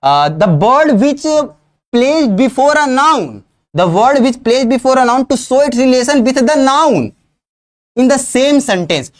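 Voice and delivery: very slow, every word spaced; slow dictation. Shown as a demonstration. Teacher dictating the definition for students to note. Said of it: "एक बार और बोल रहा हूं".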